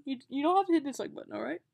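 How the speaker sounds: loud hammed-up repeat, fast; bad acting. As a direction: overdo the hurt plea again. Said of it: "I'm a terrible actor".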